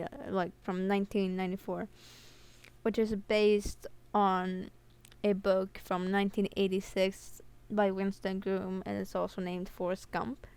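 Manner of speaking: lisping from a tongue piercing; real lisp on every s. Real, not acted. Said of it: "because I just got a tongue piercing".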